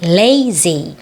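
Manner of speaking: "lazy" with the L made by touching the tongue tip to the palate; clear tongue-tip L. Shown as a demonstration. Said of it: "혀 끝이 위에 천장에 살짝 닿습니다".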